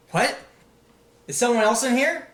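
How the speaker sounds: high, loud startled question; the prisoner asks loud and high, startled. Acted. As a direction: jump at the hidden voice. Startled prisoner hears hidden voice.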